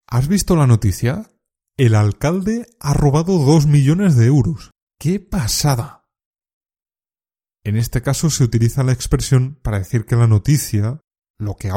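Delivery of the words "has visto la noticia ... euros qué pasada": shocked disbelief. Shown as a demonstration. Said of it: "Es importante el tono de la voz".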